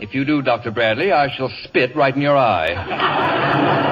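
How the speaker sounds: slow, deliberate contempt; slow icy threat to the doctor; cold insult. Acted. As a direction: lay each word down slowly to wound.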